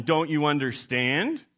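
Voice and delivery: condescending. Retold or imitated. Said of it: "a very condescending way to ask a question".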